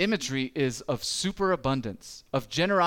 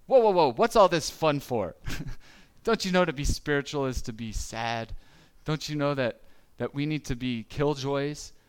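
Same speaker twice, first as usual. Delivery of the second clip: mock killjoy scold; 3 dB louder than usual. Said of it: "he's not saying".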